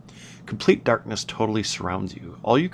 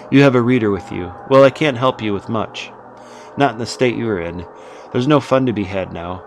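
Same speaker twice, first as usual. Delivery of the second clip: louder, clipped-off businesslike dismissal; 4 dB louder than usual. Acted. Emiliana dismisses the visitor, louder and businesslike. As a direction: send him away politely but firmly. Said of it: "sharper and more estranged, less breezy".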